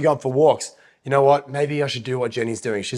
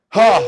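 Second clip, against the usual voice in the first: gasp for air; 7 semitones higher, 8 dB louder than usual. Real, not acted. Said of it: "I didn't breathe for five minutes then".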